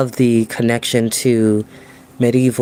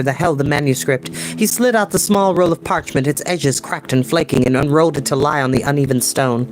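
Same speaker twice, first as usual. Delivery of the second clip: bright, higher storytelling voice; story narration; 5 semitones higher than usual. Acted. Narrator reading the grail chapter to viewers, storytelling. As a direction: read it to an audience, vivid and even. Reads novel aloud.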